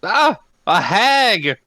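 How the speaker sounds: high, drawn-out wail of dread; hammed-up cry announcing a monster; mock alarm. Player acts alarm at the hag.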